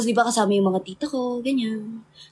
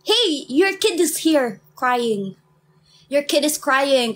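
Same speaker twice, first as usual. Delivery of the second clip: mock calling out; much slower than usual. Calling out to beach parents.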